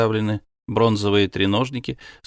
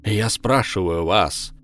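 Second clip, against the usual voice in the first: booming voice. Acted. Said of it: "возвысил голос и теперь гремел".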